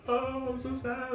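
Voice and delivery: high, slow, mock-pitiful whimper; imitating a crying heroine, high and drawn out; mock sad whine. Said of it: "shoving them into her face and crying".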